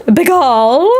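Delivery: "Bagel" with a long, open second syllable, rising; questioning bay-GAAL on "Bagel"; mispronounced bagel. Shown as a demonstration. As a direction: stretch the end of "Bagel" like a question.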